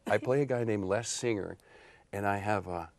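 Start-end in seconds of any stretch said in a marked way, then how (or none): 2.1-2.9 cheesy pitchman. Acted. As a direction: sell it like a cheesy seducer, hushing at the end. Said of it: "I play this cheesy guy".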